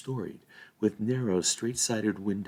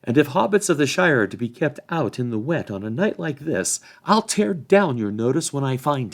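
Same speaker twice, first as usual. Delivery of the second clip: loud, raised retort; shouting back; 6 semitones higher, 6 dB louder than usual. A narrator's reading. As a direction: shout back through the gate. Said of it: "Sam shouted back".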